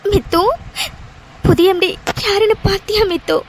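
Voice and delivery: halting, weepy question; tearful questioning. Acted. Crying friend asking Mithu about the new MD, tearfully. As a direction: ask her friend through tears. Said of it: "அழுதுட்டு வந்தான்னு".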